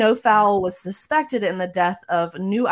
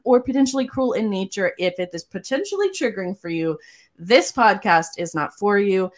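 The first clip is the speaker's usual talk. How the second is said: warning announcement. Acted. Reads trigger warning.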